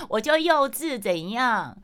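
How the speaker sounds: cheeky defiance. Real, not acted. Admitting to listeners she's childish, playful defiance. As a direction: own it with a cheeky grin.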